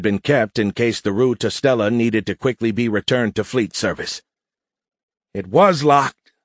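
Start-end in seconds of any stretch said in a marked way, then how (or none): 5.3-6.3 slow, higher, smug stress on "was"; smirking. A narrator's reading. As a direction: gloat through a smirk, stretching it out. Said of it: "Biff replied with a smirk".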